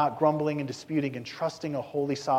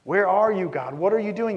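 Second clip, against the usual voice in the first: mock frustrated prayer; complaining prayer; 3 semitones higher than usual. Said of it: "Disputing is an intellectual quarrel".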